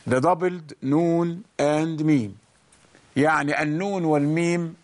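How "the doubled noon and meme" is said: deliberate teaching repeat; slow repeat. Shown as a demonstration. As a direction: repeat the term slowly for the class. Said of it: "called the doubled noon and meme".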